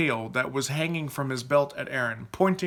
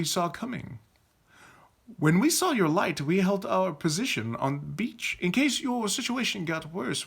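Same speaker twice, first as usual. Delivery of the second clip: lightly voiced formal leader, a bit high; knight leader explaining; 5 semitones higher than usual. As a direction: explain it with a touch of lordly poise. Leader's character voice.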